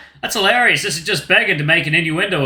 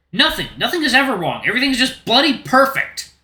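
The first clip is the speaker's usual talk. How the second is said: sarcastic; 6 semitones higher than usual. Acted. Sarcastic bitter outburst.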